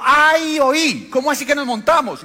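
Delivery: high, loud laughing "¿cómo así?"; laughing disbelief. Retold or imitated. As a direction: retell the man laughing in disbelief. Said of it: "empezó a reírse y dijo". (se ríe incrédulo, agudo y fuerte)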